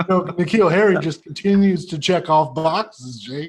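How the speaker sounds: impression of Jake. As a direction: drag it out teasing Jake. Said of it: "That impression is a".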